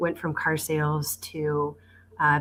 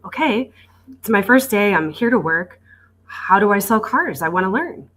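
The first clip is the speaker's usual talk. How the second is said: eager retold newcomer, somewhat higher and louder; eager first-day excitement; 5 semitones higher, 6 dB louder than usual. New salesperson to manager on first day, retold eagerly. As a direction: re-enact a keen beginner reporting for work. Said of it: "and I was all excited".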